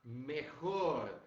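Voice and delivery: "mejor" with a throaty Spanish J and a closed O; a teacher showing the Spanish pronunciation; Spanish model word. Shown as a demonstration. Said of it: "olha aqui, ó".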